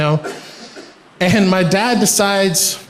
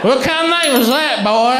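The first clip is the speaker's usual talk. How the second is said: Alabama coworker; 4 semitones higher than usual. Retold or imitated. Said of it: "very, very Alabamian".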